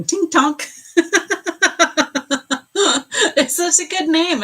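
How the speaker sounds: high, loud giggly delight; real amused laughter. Real, not acted. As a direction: laugh out loud through the words. Amused by a viewer's name.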